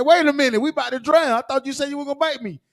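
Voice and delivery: panicked frog. Acted. Storyteller voicing the frog as he's bitten, panicked. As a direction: cry out as the drowning frog. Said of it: "He said".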